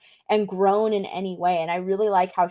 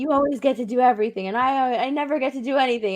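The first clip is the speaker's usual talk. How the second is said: fast, lightly put-on childish whine; a touch of childlike protest; childlike complaint; 3 semitones higher, much faster than usual. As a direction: complain quickly like a jealous kid.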